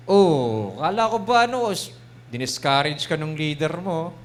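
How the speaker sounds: a lightly voiced accusing devil; preacher playing the devil whispering discouragement; taunting devil voice. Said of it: "Yung ganun yung boses ng demonyo".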